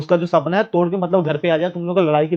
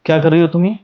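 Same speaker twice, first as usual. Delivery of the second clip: angry confrontation; 4 dB louder than usual. Acted. Husband confronts wife angrily.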